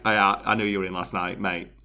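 low, softly trailing housemate quote; imitating a deadpan housemate; unbothered housemate.

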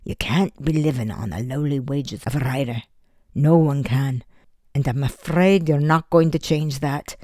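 a light Scottish brogue, gentler and fatherly. Acted. Father explaining his love to Eddie, light Scottish brogue. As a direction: let the Scottish brogue come through as you plead. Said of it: "His Scottish brogue came out when he spoke softly".

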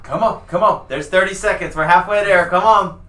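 high, urgent cheering. Real, not acted. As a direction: keep pushing him. Coach cheering on.

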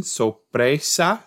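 Spanish word with an Italian lilt, drawn out; Italian accent. Real, not acted. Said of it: "said it in an Italian accent".

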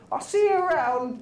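high pixie brush-off; breezy high fairy goodbye; girl voice for the pixie. Acted. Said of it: "my girl voice for the pixie".

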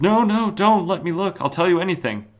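high, loud frantic begging; panicked pleading. Retold or imitated. James begging the Spectre not to look, high panic. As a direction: plead in terror, pitch shooting up. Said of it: "James says".

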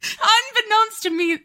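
high, slow, cracking up mid-sentence; helpless high giggly delivery; laughing. Real, not acted. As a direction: barely get it out for laughing. Laughing at her own story.

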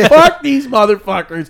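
high, loud, drawn-out mock yell; retold defiant yell. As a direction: re-enact a defiant yell, stretching it out. Retold defiant outburst on stage.

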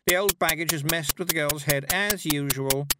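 haughty high-pitched complaint; loud, disdainful grumble; exasperated. A narrator's reading. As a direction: dismiss it all with weary scorn. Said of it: "rolling her eyes".

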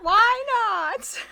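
high, loud indignant wail; hammed-up outraged plea, half laughing; mock child protest. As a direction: protest loudly like a thwarted kid. Retold child protesting to mom.

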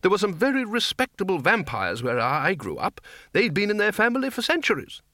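mildly irritable insistence; snapping. A narrator's reading. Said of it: "the Arch-Chancellor snapped".

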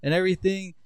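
high-pitched mock tirade at normal volume; retold confrontation. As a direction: imitate someone ranting in another's face. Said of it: "He got in his face".

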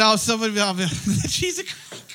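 quoting through laughter; giggling out the quote; laughing while quoting. Retold or imitated. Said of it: "He said, he said".

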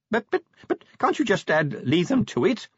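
high, stammering, nervous little clerk; a worried clerk begging, voice pitched high; flustered clerk. Acted. The nervous clerk pleads with the commander, stammering high.

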